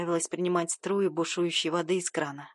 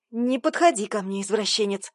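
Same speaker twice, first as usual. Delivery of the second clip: loud cry at the pervert; yelled warning, then plain; shout; 4 dB louder than usual. Acted. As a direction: shout him off, louder. Heroine yells at attacker.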